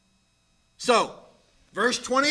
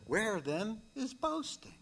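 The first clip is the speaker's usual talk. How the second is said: soft hushed question, much softer; whispered question; 14 dB quieter than usual. Shown as a demonstration. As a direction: whisper it to the congregation. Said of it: "I'll whisper it".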